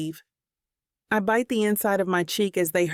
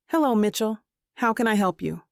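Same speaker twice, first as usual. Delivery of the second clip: bright, polite service-desk greeting; lightly put-on customer service voice. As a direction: greet him like a cashier on shift. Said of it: "in my best customer service voice".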